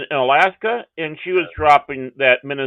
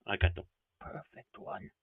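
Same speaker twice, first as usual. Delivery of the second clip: much softer, lower mumbled repeat; quiet aside; 7 semitones lower, 20 dB quieter than usual. Real, not acted. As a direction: drop it to a quiet aside to yourself.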